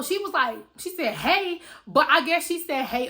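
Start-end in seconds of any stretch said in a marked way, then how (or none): 1.1-1.6 higher, forceful hey; aggressive greeting. Retold or imitated. 2.8-3.1 mock-tough hey; aggressive greeting.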